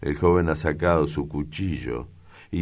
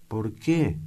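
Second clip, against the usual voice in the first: dazed repeat; 7 semitones higher than usual. A narrator's reading. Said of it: "Repite atontada".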